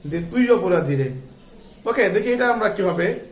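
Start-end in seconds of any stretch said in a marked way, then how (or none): 0.3-1.1 তুই hit hard and louder, then অপরাধী রে; accusing, leaning on তুই; stress on তুই. Retold or imitated. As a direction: punch the word তুই as an accusation. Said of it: "তার উপরে জোর দিয়ে বলছে".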